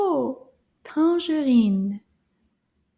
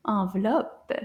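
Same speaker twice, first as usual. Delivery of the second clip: envelope said quicker; a little faster; 5 semitones lower than usual. Shown as a demonstration. Teacher says the word faster for the child. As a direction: speed up envelope. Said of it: "Let's say it a little faster".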